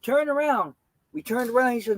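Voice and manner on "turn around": cop command. Retold or imitated. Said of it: "The police say".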